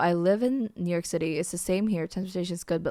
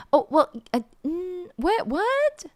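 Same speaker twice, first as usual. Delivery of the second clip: rising higher in disbelief; baffled; 10 semitones higher than usual. Real, not acted. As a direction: climb into a squeaky what. Baffled by microwaving water.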